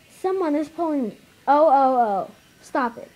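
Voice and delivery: scared cry of oh; panicky, pleading; frightened. Acted. Character being dragged.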